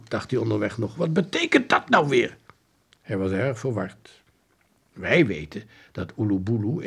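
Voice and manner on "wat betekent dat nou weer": lightly voiced confused question; a hint of puzzled father. Father running to the police, mildly puzzled. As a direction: wonder aloud, baffled.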